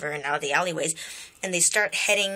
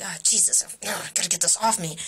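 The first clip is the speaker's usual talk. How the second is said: unbothered mild complaint at usual pitch; not freaking out. Retold or imitated. Kid with crocodile on his shoulder, mildly bothered. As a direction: grumble it casually, no panic. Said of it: "not, like, freaking out or anything".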